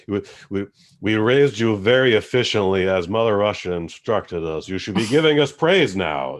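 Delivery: hammed-up Russian parents at dinner; Russian-accented English, mostly in own voice; mock Russian accent. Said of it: "they speak broken English like this".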